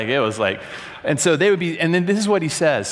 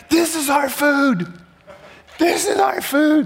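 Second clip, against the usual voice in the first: retold shout; 13 semitones higher than usual. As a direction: shout it like a protest chant. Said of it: "And they're like".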